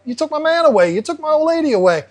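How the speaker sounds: high, whiny voiced fish complaint. Separated fish complaining its mate was taken, whiny. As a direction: whine like a fish robbed of its mate.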